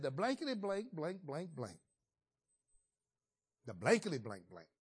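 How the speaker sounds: mock cursing with blankety blanks standing in for swearing; a hint of a hothead swearing, played for laughs; old Peter cursing. Preacher voicing Peter cussing out a servant girl, in a light mock rant. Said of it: "he let his old Peter come back".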